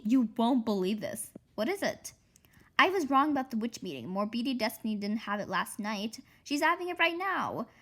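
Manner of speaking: quick, breathless rush of news; excited. Acted. Girl rushing to tell Hanny the witch meeting is now.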